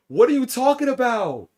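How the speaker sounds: high, loud disbelieving shout; shocked yell. Real, not acted. Streamer shocked by chat.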